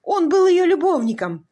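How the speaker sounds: high, loud grief-stricken wail; anguished moan. A narrator's reading. Husband telling the doctor his wife is dead, anguished wailing. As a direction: cry out the loss as if torn apart. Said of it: "простонал он".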